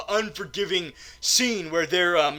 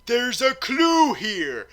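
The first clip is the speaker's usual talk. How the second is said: high, drawn-out "Oh"; acted discovery; 6 semitones higher, 4 dB louder, slower than usual. James Bond finding a clue, mock amazed discovery. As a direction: announce the find slowly, in mock wonder. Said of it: "James Bond is like".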